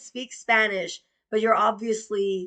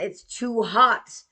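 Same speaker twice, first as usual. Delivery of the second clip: drawn-out, louder complaint; slow insistent whine; 2 semitones higher, 5 dB louder, slower than usual. Retold or imitated. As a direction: stretch it out in protest. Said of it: "And I'm like".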